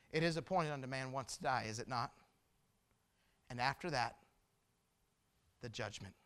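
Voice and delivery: low, soft scripture with weighty pauses; hushed solemn warning. Real, not acted. Preacher reminds congregation they will die, hushed and grave. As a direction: drop down gravely, pausing before the judgment.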